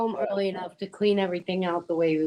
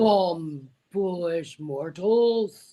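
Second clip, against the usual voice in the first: booming demon lord; slower than usual. Acted. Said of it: "Good one".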